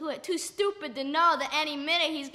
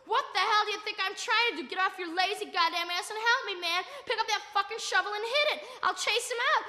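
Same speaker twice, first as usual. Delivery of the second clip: acted angry retort, only mildly raised; screaming back; 2 semitones higher than usual. Friend demands help with the cat, mild acted scream back. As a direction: snap back in exasperation, without full volume. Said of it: "and he's screaming back".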